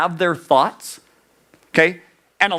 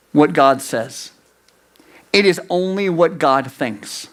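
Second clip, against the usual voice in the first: ordinary talk, nothing marked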